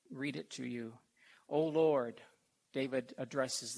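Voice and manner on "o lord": loud, reverent scripture reading; psalm reading. Acted. Preacher calls out to the Lord in reading. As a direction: proclaim it to the congregation.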